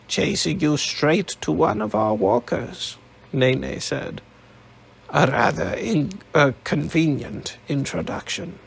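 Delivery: lightly voiced old woman, dry and suspicious; a hint of a sly old woman needling him; old matriarch. Nene voiced in the story.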